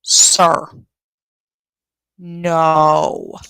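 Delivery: loud, exasperated sir; a loud fed-up sir; exasperated shout. Real, not acted. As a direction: call him out in disbelief. Exasperated at the defendant.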